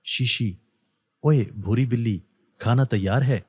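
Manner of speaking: a light, mocking tease of a cousin; teasing. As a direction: poke fun at her, half-joking. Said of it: "اسے چڑھانے کے لیے". (ہلکا سا چھیڑنے والا لہجہ)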